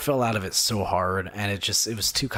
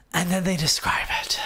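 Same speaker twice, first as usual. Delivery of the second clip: mock dismay; 7 semitones higher than usual. Dread before the letdown.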